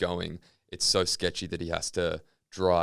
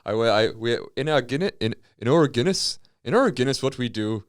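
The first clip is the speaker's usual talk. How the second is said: stumbling, raised mock Irish accent; 3 semitones higher, 4 dB louder than usual. Co-host tries a line about Guinness, Irish accent. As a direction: fumble through a bad Irish accent.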